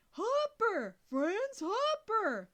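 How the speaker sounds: loud, high, slow shout; boy shouting a name down the phone. A narrator's reading. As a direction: bellow the name.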